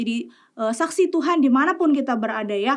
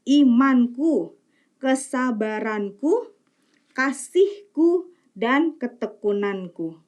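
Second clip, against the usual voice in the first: scripture reading. Acted. Reads the Bible passage aloud.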